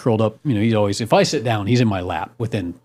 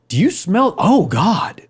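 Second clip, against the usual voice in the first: higher, alarmed wife voice; imitating his wife; 8 semitones higher, slower than usual. Retelling his wife smelling skunk at night, higher alarmed voice. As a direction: pitch up into a mock panicked wife. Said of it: "You haven't sounded like that in so many years".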